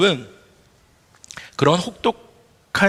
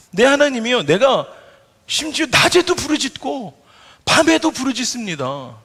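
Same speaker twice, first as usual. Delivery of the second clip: crying out; 7 semitones higher than usual. Retold or imitated. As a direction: cry out to God in anguish. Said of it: "쉬지 않고 부르짖는다는 얘기예요". (하나님께 높고 크게 부르짖듯)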